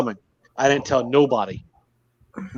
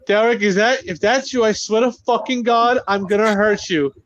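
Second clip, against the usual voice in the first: higher-pitched mock scared threat; imitating a scared wife; 6 semitones higher than usual. Retelling scared wife threatening husband from bathroom, a hint of fear. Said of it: "she's scared, I can tell".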